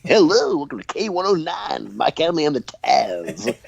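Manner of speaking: hammed-up morning show host intro; morning radio host. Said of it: "sounds like a morning radio show".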